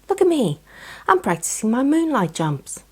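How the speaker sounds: high, bouncy showing-off voice; excited squirrel. A narrator's reading. Squirrel showing friend her jumps, high excited.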